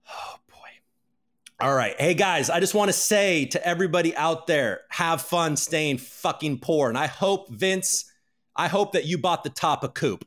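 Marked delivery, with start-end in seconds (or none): 4.9-6.9 drawn-out mocking sign-off, slow; slow taunt. Real, not acted. Taunting Vince and all viewers, slow mocking. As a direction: savour each word of the insult.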